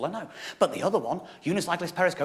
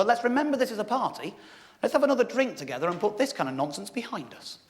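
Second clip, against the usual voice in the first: calm the room like a statesman; mock-pompous peacemaker; solemn peacemaker; 4 semitones higher than usual. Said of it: "one of my friends leapt in and went".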